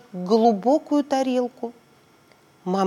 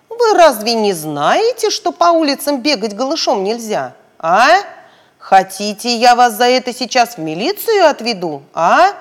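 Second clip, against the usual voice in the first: stern policeman; 5 dB louder than usual. Acted. Policeman threatening to take girls to station, stern. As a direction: warn them like a strict officer.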